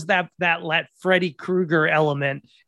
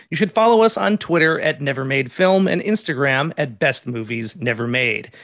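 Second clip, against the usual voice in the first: podcast outro read; 3 semitones lower than usual. Real, not acted. Host reads the episode outro.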